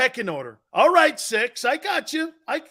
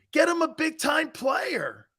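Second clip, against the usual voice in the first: higher, slow shout, each word leaned on; repeated plea; 8 semitones higher than usual. Real, not acted. Repeating his demand to the chat, slow and shouted. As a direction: hammer the demand home again.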